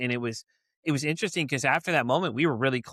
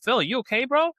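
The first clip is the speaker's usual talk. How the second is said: raised, higher worried call across the street; 9 semitones higher than usual. Retold or imitated. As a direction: call to a friend who was just hit. Calling out to hit friend.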